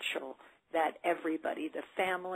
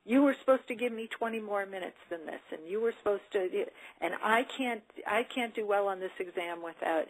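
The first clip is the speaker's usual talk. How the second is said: accusatory yelling; 3 semitones higher than usual. Retold or imitated. Student complaining at the professor, accusing and raised. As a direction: throw blame at the professor, voice up. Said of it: "not sound like you're yelling at the professor".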